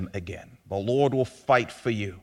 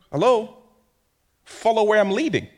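God beckoning; 9 semitones higher, 4 dB louder than usual. Pretend.

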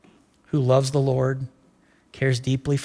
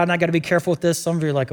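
ordinary talk

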